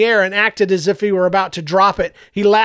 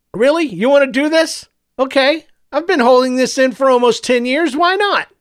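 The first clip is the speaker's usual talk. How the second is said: higher, louder, gleeful; eager villain; 7 semitones higher, 4 dB louder than usual. A narrator's reading. Doctor Superior gleefully starting his confession to Joseph, higher. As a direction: relish finally telling it.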